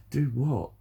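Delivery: ordinary talk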